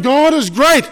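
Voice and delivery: high, loud joyful shout; loud, high cry of praise to God; yelling praise. Retold or imitated. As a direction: shout it out like a healed man running back. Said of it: "yelling, yelling, saying".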